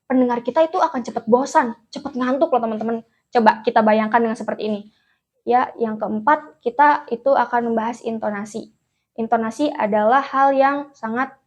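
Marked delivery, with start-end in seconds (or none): 5.4-11.3 flat dull delivery. Shown as a demonstration. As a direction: read it dull and monotone so it bores. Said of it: "itu nggak enak kan didengarnya".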